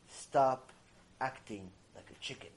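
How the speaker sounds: hushed, low command with a pause after the first word; relaying God's message. Retold or imitated. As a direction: drop low and soft for a grave admonition. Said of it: "God is here to tell you".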